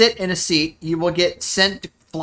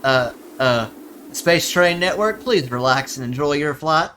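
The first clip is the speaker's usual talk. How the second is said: flight attendant voice; 3 semitones lower than usual. Pretend. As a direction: announce it like cabin crew, lightly. Playing the train's flight announcer.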